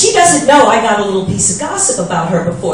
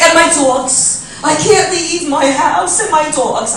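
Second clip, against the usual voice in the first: slow whiny quote; slower than usual. Retold or imitated. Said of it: "She's like".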